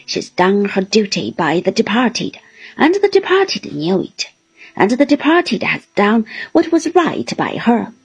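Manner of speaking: a lightly voiced bluff old seaman, welcoming; hearty fisherman. Mr Peggotty comforts the widow.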